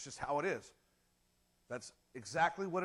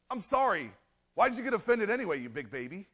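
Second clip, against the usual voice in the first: mock apology; 3 semitones higher, 6 dB louder than usual. Mock bad apology to wife.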